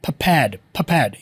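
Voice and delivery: PREPARED as 'puh-PAED', both r's silent; preferred pronunciation. Shown as a demonstration. Teacher models the better form for students, preferred pronunciation. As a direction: say PREPARED without any r. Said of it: "लेकिन बेहतर है prepared".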